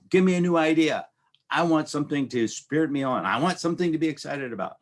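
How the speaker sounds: mock-eager cry for inspiration; eager plea. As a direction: beg for a new idea like it's your lifeline. Voicing an eager innovator.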